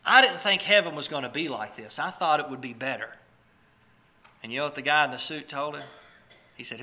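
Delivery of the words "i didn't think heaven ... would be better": acted upset protest, loud at first; mock indignant complaint, easing off; real upset. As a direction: play a let-down man protesting. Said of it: "he gets real upset and he says".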